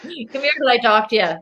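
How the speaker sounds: lilting put-on Irish accent; imitated Irish relatives. Host quoting mom and grandpa, mimicked Irish accent. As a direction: mimic an Irish elder calling someone over. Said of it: "my mom and my grandpa are like".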